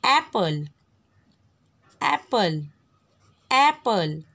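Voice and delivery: एप्पल said slowly and distinctly, open ए first; repeated for pupils. Shown as a demonstration. Teacher drilling the word for pupils, distinct. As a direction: drill एप्पल, clear first vowel each time. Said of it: "एलिफेंट, एप्पल".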